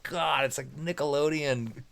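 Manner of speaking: clowning mockery. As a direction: make fun of it among friends. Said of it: "me and my friends are kinda clowning it".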